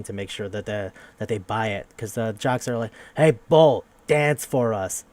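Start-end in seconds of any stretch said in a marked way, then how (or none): 3.2-5.0 jock taunt. Retold or imitated. Jocks taunting the mascot.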